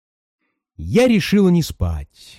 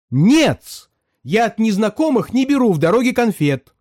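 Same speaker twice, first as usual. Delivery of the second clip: high, sharp cry of refusal; high-pitched alarmed outcry; shouting refusal; 8 semitones higher than usual. A narrator's reading. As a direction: fling the no at her. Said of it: "Закричала вдруг востроносая".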